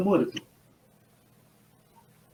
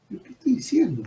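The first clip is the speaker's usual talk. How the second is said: whispered self-question; 7 semitones higher, 6 dB quieter than usual. Retold or imitated. Inner panic after his own words.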